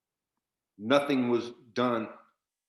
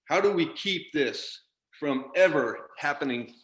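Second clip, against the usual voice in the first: real upset anger; 3 semitones higher than usual. Real, not acted. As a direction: demand answers from the president, voice climbing. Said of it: "I'm sorry I'm so upset".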